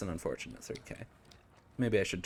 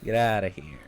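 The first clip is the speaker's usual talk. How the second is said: loud; 11 dB louder than usual. Real, not acted. Shooing the killer away.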